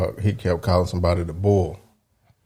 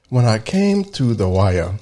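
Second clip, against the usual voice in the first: put-on a slow, deliberate London English accent on "When I came to the wire"; slower than usual. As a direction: announce it, then do the British actor. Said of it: "let me do my, uh, my, my London, uh, English accent".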